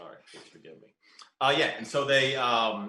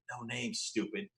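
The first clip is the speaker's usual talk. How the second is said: hushed, slow narrated whisper; 11 dB quieter, slower than usual. A narrator's reading. Letter writer's mystery woman shushing him, whispering. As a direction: drop much softer and draw it out.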